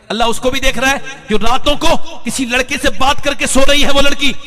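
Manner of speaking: high, loud preaching; fiery warning. Real, not acted. Preacher warns listeners that Allah sees, loud high preaching. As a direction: thunder the warning at the crowd.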